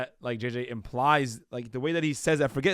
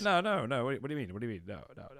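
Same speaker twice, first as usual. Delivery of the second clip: attempted British accent, trailing off softer; rough go at a UK accent; mock UK accent; 4 dB quieter, faster than usual. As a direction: imitate a British boxer, words tumbling out. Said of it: "Is that your accent?".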